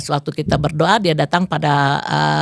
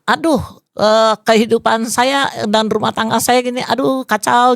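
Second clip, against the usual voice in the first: complaining; 4 semitones higher than usual. Retold or imitated. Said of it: "dulu saya bisa bilang".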